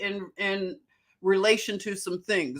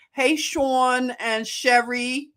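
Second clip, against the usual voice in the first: slow, drawn-out Philadelphia greeting; Philly accent; slower than usual. Shown as a demonstration. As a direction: show off real Philly on Sean and Sherry. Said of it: "That's real Philadelphia".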